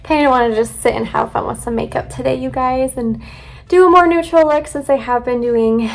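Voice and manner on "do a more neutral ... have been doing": breathless, puffing between words; out of breath. Real, not acted. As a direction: talk while catching your breath. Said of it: "I'm out of breath".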